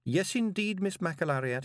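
high-pitched, harried reply; desperate. A narrator's reading. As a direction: start high, as if desperate to placate her. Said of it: "he said desperately".

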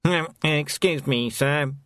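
slow, timid interruption; nervous. A narrator's reading. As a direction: hesitantly correct your superior. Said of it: "said Snouty nervously".

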